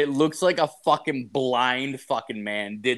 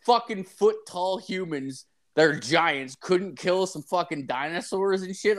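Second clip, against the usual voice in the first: incredulous; 6 semitones higher than usual. Retold or imitated. Arguing with the painter about giants.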